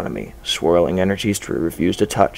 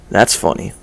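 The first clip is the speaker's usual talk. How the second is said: laughing. Acted. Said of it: "So I laugh".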